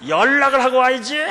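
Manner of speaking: very high, very loud blurted "연락을 하고 와야지"; frozen-mouth shout. Retold or imitated. Cyclist with a frozen mouth blurting "연락을 하고 와야지", comic shout. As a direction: yell "연락을 하고 와야지" as if lips are frozen. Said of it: "겨울이라서 입이 얼어갖고요".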